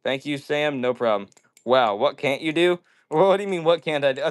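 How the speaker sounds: normal talking voice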